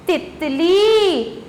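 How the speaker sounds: drawn-out, each syllable clear; slow model reading. Shown as a demonstration. Teacher naming the picture slowly for pupils. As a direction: say the word slowly so children can follow. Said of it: "ये क्या है".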